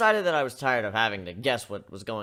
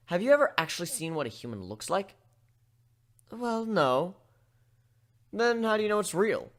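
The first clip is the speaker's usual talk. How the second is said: lightly higher curious pony; a hint of an eager young pony, questioning; eager filly prodding for proof; 5 semitones higher, 4 dB louder than usual. Pony asks about humans.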